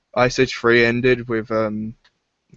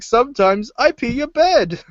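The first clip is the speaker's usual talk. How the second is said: much higher, squeaky confession; sheepish cartoon voice; 11 semitones higher, 3 dB louder than usual. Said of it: "He's like".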